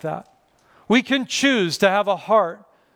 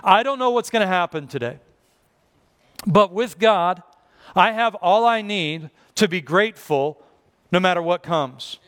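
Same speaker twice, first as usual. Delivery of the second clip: calm trust. Shown as a demonstration. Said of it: "starts off each day saying".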